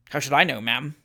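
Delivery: low, unbothered reply; coolly. Acted. Trott hardened by the evening, cool reply. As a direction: answer with calm indifference. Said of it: "with a singular coolness".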